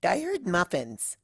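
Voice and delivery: slow, dreamy muffin lover; eager. Acted. Ditzy pops out of the box, eager for muffins. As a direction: perk up at the word muffins.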